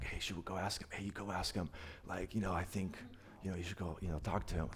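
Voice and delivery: hushed, breathy whisper among friends. Acted. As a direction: whisper it so the teacher won't hear. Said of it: "like, whispering".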